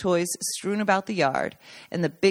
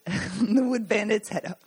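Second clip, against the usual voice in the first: laughing through it; 3 semitones higher, slower than usual. Real, not acted. Reader laughs mid-sentence, retake follows.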